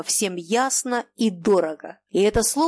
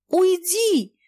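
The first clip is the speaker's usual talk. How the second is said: hysterical scream; 10 semitones higher than usual. A narrator's reading. Cornered by his friend, hysterical scream. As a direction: scream it, back to the wall. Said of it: "истерически закричал Ежов".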